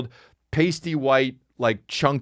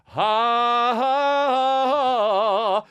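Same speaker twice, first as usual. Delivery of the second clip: high, sung ha ha ha; mocking priest's chanted laugh; singsong mock laugh; 10 semitones higher, much slower than usual.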